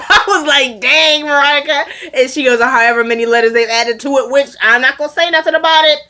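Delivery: talking through real laughter; laughing. Real, not acted. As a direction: tell it while cracking up. Cracking up while retelling Veronica's remark.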